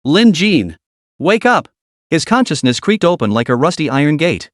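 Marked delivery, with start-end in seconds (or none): 0.0-1.7 put-on panicked girl calling, pitch rising; tearful shout. A narrator's reading. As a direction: shout him awake, close to tears. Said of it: "a girl's tearful shouts".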